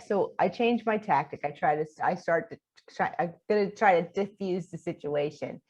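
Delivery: usual speaking voice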